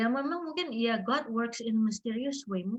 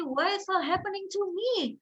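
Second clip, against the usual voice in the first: retold plaintive protest; 9 semitones higher than usual. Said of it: "nanya ke ibu itu kenapa".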